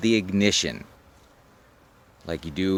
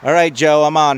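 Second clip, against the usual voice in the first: calling out; 8 semitones higher, 11 dB louder than usual. Real, not acted. Calling out to partner below.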